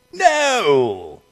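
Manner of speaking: loud gruff Grinch "No". Acted. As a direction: bark it out as the sly Grinch.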